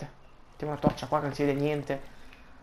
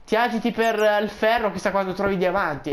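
imitazione di uno spettatore; 4 semitones higher, 3 dB louder than usual. Retold or imitated. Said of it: "uno di voi mi ha detto".

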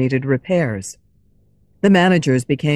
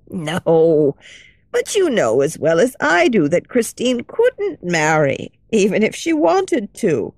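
a lightly voiced kindly old lady, hushed; gentle old lady sharing a secret; old woman.

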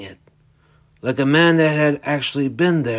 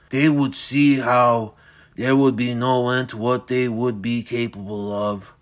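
put-on menacing old villain. Dorian's speech.

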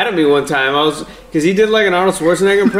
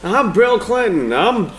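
mock Clinton impression. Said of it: "they always say the name of what they're doing".

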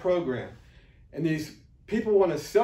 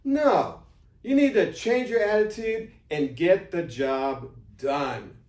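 firm, louder no-nonsense order; harsh; 3 dB louder, slower than usual. Real, not acted. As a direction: lay down the law, slow and firm. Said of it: "I know I'm being harsh".

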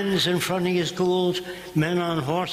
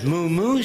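mock cow moo; 2 semitones higher, 4 dB louder than usual. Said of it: "said the cow".

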